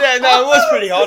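high, loud, laughing through the words; laughing mock quote. Mocking a friend's Snapchat while laughing hard. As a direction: mimic him while cracking up. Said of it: "It's like".

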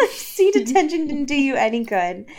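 mock-stern teacher telling-off; spat out. Missus Smith threatens Bella with principal's office, spat out. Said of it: "Missus Smith spat out at me".

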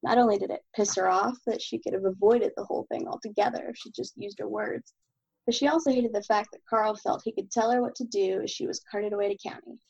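steady, even novel reading; story narration. Acted. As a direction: read the chapter aloud evenly. Reads chapter of own novel.

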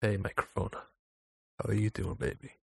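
woo the microphone gently; seductive ASMR voice. Shown as a demonstration. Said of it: "look, I'll try and do it now".

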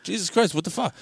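high, incredulous joke husband; mock-exasperated outburst. Joke husband exasperated at bouncing wife.

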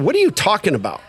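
mock outrage at being let down; pissed off. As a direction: challenge your sponsor in disbelief. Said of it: "I get pissed off".

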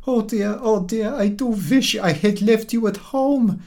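put-on high, worried old woman's voice; fretting old lady. A narrator's reading. Old milkwoman scolds herself for bringing him, high fretful voice. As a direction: wring your hands in the voice.

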